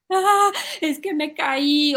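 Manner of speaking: slow, high mock sobbing kid; crying child. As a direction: whimper it out like a hurt child. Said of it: "él llega llorando". (niño llorando, fingido y lento)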